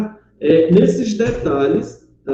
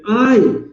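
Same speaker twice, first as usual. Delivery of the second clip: cry of pain; 3 semitones higher than usual. Shown as a demonstration. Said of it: "quando você tem uma expressão de dor".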